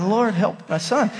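usual speaking voice

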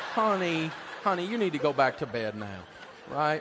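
coaxing through laughter; dad laughing as he coaxes his son back to bed. Retold or imitated. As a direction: chuckle while sending him to bed.

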